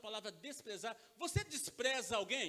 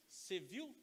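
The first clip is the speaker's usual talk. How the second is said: comentário baixinho para a colega, encenado; fofoca imitada; 4 semitones lower, 8 dB quieter than usual. Retold or imitated. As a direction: imite um cutucão de fofoca em voz baixa. Imita mulher cochichando com colega. (imitação de cochicho de desdém)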